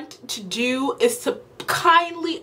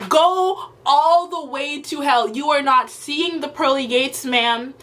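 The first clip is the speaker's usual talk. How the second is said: angry; 2 semitones higher than usual. Real, not acted. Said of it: "this was an angry video".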